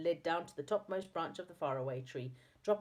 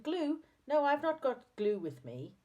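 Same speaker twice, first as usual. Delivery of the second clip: high, louder puzzled reply; 10 semitones higher, 4 dB louder than usual. A narrator's reading. Saucepan Man hearing wrong about glue, puzzled. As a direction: answer a misheard request in a raised voice. Mishears his friend, puzzled.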